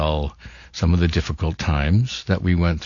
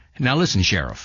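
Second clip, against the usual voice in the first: put-on slightly nasal lawman voice; 3 semitones higher than usual. Showing how the character Cooper talked: nasal Agent Cooper voice. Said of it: "almost a nasal quality to it".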